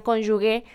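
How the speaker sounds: cónyuge with a hard g, like gue; quoted mispronunciation. Retold or imitated. Professors warning students against it, imitated mispronunciation. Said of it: "no digan".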